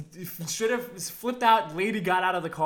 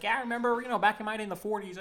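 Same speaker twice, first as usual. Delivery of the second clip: put-on old timer; 3 semitones higher, faster than usual. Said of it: "That guy was a geezer".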